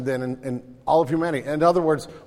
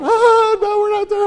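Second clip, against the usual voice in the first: put-on very high, loud little kid voice; tiny kid giving themselves away; giggly toddler reply; 11 dB louder than usual. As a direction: squeal it like a hiding two-year-old. Hiding toddler answers from under table.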